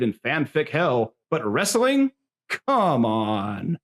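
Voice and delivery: lightly hammed-up ringside commentary; indignant emcee addressing the crowd; a touch of showy fight-night patter; wrestling announcer. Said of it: "my best wrestling announcer voice".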